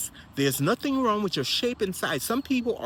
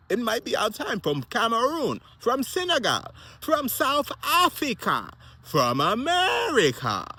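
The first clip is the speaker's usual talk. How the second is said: rousing roll call; 7 semitones higher than usual. Real, not acted. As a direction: proclaim each country like a rally cry, stretching the last ones. Rallying countries for a marathon win.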